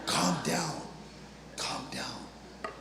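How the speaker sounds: soft, urgent "keep it down" hush; hushed calming. Acted. Counselor to a panicking caller on the phone, hushed. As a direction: whisper to shush someone.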